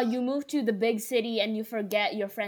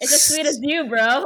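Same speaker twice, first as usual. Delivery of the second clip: laughing; 2 semitones higher, 6 dB louder than usual. Real, not acted. Laughing through joke line.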